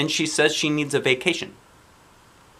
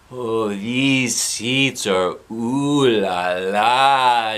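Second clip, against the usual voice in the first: mock fancy swoon; 4 dB louder, much slower than usual. Child cooing over seats.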